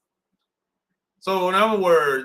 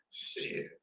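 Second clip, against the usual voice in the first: whispered curse; 16 dB quieter than usual. Real, not acted. Aside after laughing.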